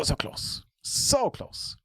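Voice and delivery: breathy near-silent whisper. Real, not acted. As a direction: whisper it in disbelief. Near miss at the table.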